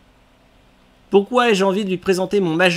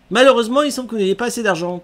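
shopkeeper voice; 4 semitones higher, much faster than usual. Acted. Reading shopkeeper line.

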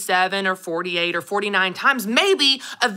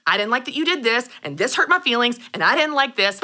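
blunt honesty; 2 semitones higher than usual. Retold or imitated. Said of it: "I did exactly what I always do".

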